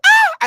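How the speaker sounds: a high, loud shocked ah; shocked exclamation. Real, not acted. Viewer reacting loudly to the crying video, shocked cry. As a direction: yelp out in disbelief.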